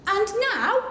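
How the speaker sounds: loud high cry; cried out. Acted. Max announcing the wild rumpus, crying out. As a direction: call it out to start the party. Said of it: "cried Max".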